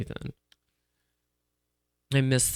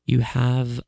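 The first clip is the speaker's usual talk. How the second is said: put-on light British accent, slow; slow, lightly British endorsement; slower than usual. Telling listeners to subscribe to Peacock, light British accent. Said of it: "You started speaking in a British accent".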